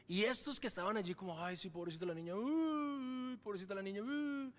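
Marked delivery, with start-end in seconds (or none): 1.4-4.5 hammed-up mourner pity, a touch overdone; mock fake pity. (lástima fingida con "uy" agudo)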